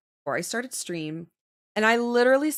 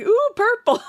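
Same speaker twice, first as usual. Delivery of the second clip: high and loud, totally sure of herself; convinced exclamation; 12 semitones higher, 8 dB louder than usual. Retold or imitated. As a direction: announce the wrong color with full conviction. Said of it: "I said it with such conviction".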